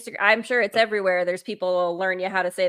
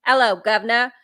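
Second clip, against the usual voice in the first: a quick put-on Cockney greeting, a bit louder; mock British accent; 5 dB louder than usual. Guest mocking an American doing British, in a fake British accent. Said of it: "I can just throw in a".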